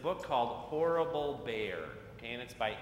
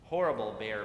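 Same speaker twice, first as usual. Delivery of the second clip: squeak; 3 semitones lower, 5 dB louder than usual. Acted. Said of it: "Bat squeaked".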